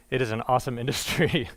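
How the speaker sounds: dry ironic praise with a laugh; sarcastic. Acted. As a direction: say it with heavy irony. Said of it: "I'm being sarcastic there".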